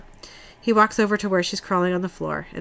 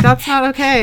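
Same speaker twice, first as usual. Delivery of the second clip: indignant; 7 semitones higher, 7 dB louder than usual. Retold or imitated. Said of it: "I was like".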